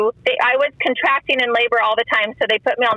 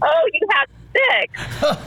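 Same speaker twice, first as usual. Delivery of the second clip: slow, crying through the words; tearful retelling; 5 semitones higher, much slower than usual. Real, not acted. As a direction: fight back real tears as you quote it.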